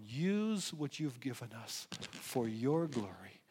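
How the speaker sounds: earnest pastoral prayer, swelling and settling; sincere closing prayer to the Father. Real, not acted. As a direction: pray over the congregation.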